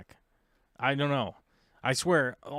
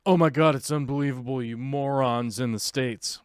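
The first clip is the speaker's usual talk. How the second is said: loud, exasperated burst at the start; hammed-up indignation, loud then easing off; mock outraged commenter; 4 dB louder than usual. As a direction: imitate a scandalized online critic scolding. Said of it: "I get all the comments".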